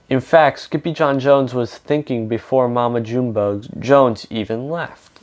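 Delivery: reading a picture book aloud to children, with lightly voiced characters; story narration. A narrator's reading. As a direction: tell the story to a young audience.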